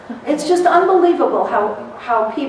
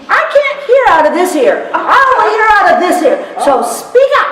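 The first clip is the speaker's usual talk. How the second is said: loud, high bossy Louisiana lady; 6 semitones higher, 5 dB louder than usual. Retold or imitated. Dottie tells the attorneys to speak up, loud and high. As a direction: order the men to speak up, sassy. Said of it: "That's how she talked".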